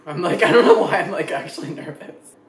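laughing nervously through words; nervous laughter. Real, not acted. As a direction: giggle out the nerves. About to taste the spaghetti.

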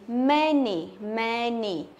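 "Many" said slowly with an E; E sound. Shown as a demonstration. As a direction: say "Many" like "men-ee". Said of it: "Đương nhiên là âm E rồi".

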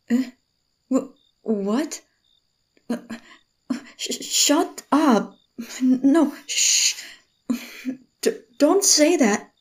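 flustered stammer. Acted. Teased by him, embarrassed stammering denial. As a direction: stammer it, caught out.

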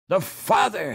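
alarmed cry. A narrator's reading. Hans to his sister after hearing the scream, alarmed cry. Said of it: "he cried".

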